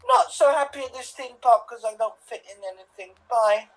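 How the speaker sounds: put-on big friendly giant voice, simple and childlike phrasing; BFG. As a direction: play a friendly giant lamenting his theme park troubles. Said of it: "So you were the B F G".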